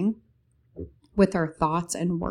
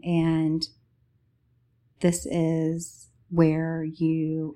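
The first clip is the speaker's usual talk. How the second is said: sleep story narrator. Acted. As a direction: lull them gently toward sleep. Meditative description in podcast intro.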